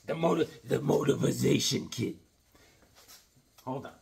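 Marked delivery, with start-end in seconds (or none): 0.1-2.2 trainer voice, stretching the word motivation; Mickey impression. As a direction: say motivation the way old Mickey would. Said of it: "We'll do a little Mickey".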